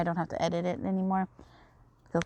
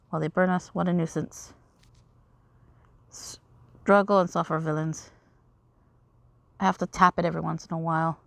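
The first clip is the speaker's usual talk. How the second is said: a hint of dramatic characters mid-battle; lightly voiced game dialogue. Heroes face Rolo's flames, lightly acted drama. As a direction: read the battle lines with mild drama.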